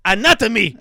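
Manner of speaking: loud, high, haughty artist caricature; hammed-up scornful high voice; high-pitched snob. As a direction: sneer it in a slow, high-pitched voice. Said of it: "He has a high-pitched voice".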